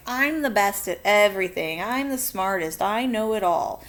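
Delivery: loud, bragging know-it-all voice; boastful show-off. Pretend. Teacher mocking a bragging kid, boastful and loud. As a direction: brag loudly like the class show-off. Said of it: "you walk around saying, like".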